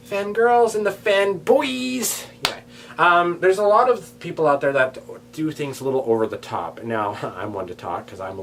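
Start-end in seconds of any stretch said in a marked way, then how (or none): 0.1-2.2 announcer voice. Acted. Announcing video topic, drawn out.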